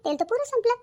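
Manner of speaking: high exclamation of dismay; shocked. Acted. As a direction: gasp it out in disbelief. Shock that oil ran out.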